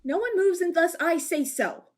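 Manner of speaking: 高めの声で強く命令する; 全員をその場に縛りつけるように; barked order. Acted. Riley asserting control over the room.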